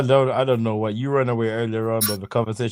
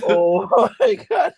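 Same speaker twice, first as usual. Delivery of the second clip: 1 laughing; 8 semitones higher, 5 dB louder, slower than usual. Real, not acted. Cracking up at the joke.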